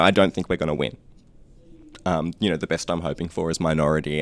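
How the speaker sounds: understated retold dejection; dejected. Weary canvasser tells caller they won't win, mildly dejected. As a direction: quote her low hopes, mildly downcast. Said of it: "she was quite dejected".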